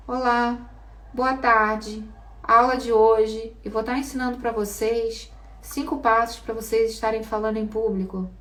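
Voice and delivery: boring lecture opening. Shown as a demonstration. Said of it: "A metade vai dormir".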